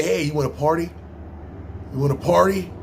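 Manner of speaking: lightly voiced chipper white partier, rising hey; a hint of an eager white guy inviting you; mock white guy offering party. Imitating white people inviting someone to party, light mock voice. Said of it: "white people, when they say partying".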